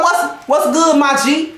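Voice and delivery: casual dude-to-dude tone; masculine bro greeting. Retold or imitated. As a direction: imitate a woman talking like one of the guys. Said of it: "Your tone".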